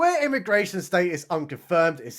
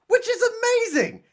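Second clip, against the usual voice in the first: laughing. Real, not acted. Sarcastic praise of a silly scene.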